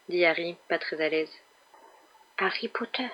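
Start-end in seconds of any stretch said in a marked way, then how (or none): 2.4-3.1 soft, high little elf squeak; tiny high creature voice, kept small; small high-pitched voice. A narrator's reading. House-elf greeting Harry Potter, small high-pitched voice. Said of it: "d'une petite voix aiguë".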